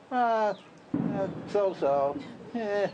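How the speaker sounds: hammed-up reluctant whiner's groan; grudging, drawn-out reply of a complainer; mock whining. Complainer answering how are you today, mock whiny. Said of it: "everybody's whining and complaining".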